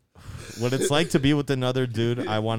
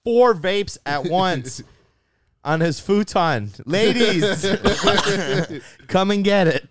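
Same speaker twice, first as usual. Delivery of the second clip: excited announcer; 8 semitones higher, 5 dB louder, slower than usual. Real, not acted. Announcing to viewers.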